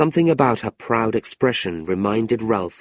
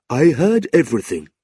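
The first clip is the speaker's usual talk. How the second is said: lightly voiced old clerk; 4 semitones higher, 4 dB louder than usual. Newman Noggs confides.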